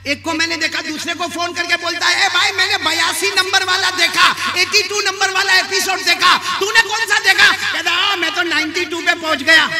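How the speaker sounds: high-pitched retelling of a phone chat; animated preaching. Retold or imitated. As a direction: act out the chat from the pulpit. Animated sermon anecdote. (ऊँची आवाज़ में जोशीली नक़ल)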